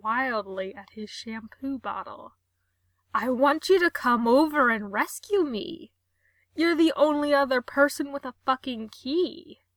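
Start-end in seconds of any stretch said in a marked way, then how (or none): 3.1-9.6 louder, urgent plea; loud pleading. Acted. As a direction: beg for rescue. Gerard stuck, pleading loudly.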